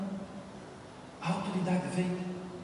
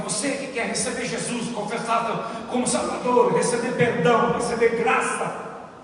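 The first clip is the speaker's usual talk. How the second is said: apelo de pastor bem alto e arrastado; apelo pastoral; 4 semitones higher, 7 dB louder than usual. Retold or imitated. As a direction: chamar a igreja à frente com força. Pastor's altar call retold. (pastor chamando todos à frente, em voz alta)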